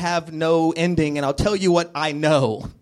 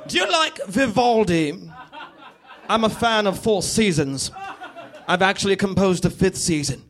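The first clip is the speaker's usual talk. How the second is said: high-pitched sinister villain voice; hammed-up villain menace; Bond villain; 5 semitones higher than usual. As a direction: toy with the victim like an evil mastermind. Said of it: "Like a Bond villain".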